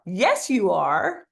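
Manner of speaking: slow, drawn-out, rising; slow emphatic yes. Shown as a demonstration. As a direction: stretch it out with conviction. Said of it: "repeat after me".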